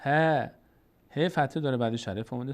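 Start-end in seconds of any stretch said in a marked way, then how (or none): 0.0-0.1 ه as a long, thin, front "haa"; light vowel. Shown as a demonstration. Teacher contrasting it with the heavy letter, light vowel on ه. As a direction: say ه light, not rounded. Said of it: "اما پر خوانده نمیشه".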